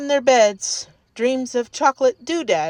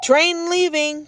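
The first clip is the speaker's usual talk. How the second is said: announcer call; 6 semitones higher than usual. A narrator's reading. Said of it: "called Bluey".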